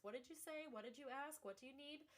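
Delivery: high-pitched, incredulous re-asking; disbelieving. Retold or imitated. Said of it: "I just couldn't believe the question".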